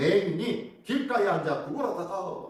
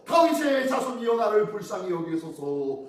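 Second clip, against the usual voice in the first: crying louder. Acted. Beggar cries to Jesus despite the crowd, crying louder. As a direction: plead aloud, pitched up on the first phrase. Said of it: "더욱 크게 소리질러".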